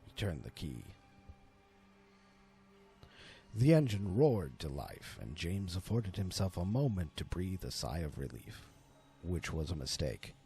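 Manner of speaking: measured, suspenseful storyteller read; story narration. A narrator's reading. Narrator telling his viewers the horror tale, suspenseful narration.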